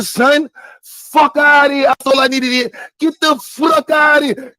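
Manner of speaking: irate, drawn-out dismissal; angry outburst. Real, not acted. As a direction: order them out angrily, stretching the words. Ordering someone out, furious rant.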